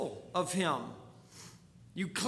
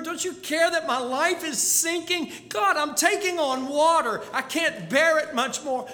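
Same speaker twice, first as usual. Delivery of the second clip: raised, pleading cry to God; desperate plea; 5 semitones higher than usual. Acted. Believer crying out to God in trouble, pleading.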